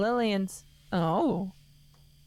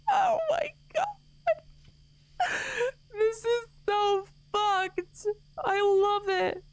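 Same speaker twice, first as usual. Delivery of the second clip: voice changer. Real, not acted. Laughing through voice mod.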